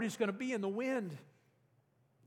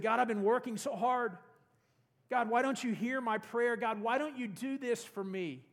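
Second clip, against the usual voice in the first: whiny; 3 semitones higher than usual. Retold or imitated. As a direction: complain to God like a tired, whining man. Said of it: "Elijah starts to get whiny voiced".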